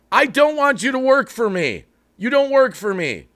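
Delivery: real irritation, pressing the point; worked up. Real, not acted. Streamer to viewers, I don't want you working for me, worked up. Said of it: "I'm getting a little worked up".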